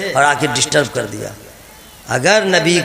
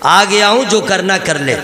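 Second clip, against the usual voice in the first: mock bold challenge, opening higher; challenging mosquito; 3 semitones higher than usual. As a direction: throw down a playful dare. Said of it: "challenge करते हुए". (मच्छर की मज़ाकिया ललकार)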